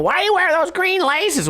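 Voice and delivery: mocking people. People questioning his shoelaces, high mocking voice. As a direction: sneer at his laces. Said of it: "A lot of people".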